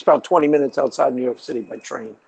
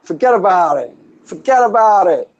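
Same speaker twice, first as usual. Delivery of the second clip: laughing, higher mock New York "Forget about it"; New York accent; 4 semitones higher than usual. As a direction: repeat it like a grinning wiseguy. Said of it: "that's my New York".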